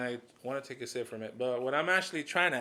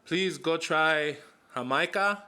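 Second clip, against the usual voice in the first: pleading; 4 semitones higher, 5 dB louder, slower than usual. Real, not acted. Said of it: "urging listeners".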